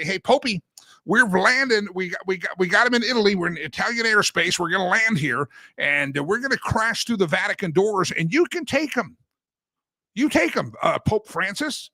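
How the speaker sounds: hammed-up announcement to the Pope; mock pilot call. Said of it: "call Pope Francis and say".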